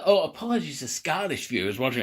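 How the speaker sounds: lightly put-on American accent. Vlogger apologising to Scottish viewers, in a loose American accent. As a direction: slip into a rough approximation of American. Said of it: "I inflected American accent there".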